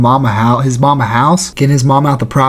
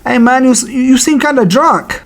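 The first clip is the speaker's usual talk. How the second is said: nice-guy trash talk impression; high, slowing, gentle mock jab; 10 semitones higher than usual. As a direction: imitate a too-polite fighter, pitched up. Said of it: "the most nice guy trash talk".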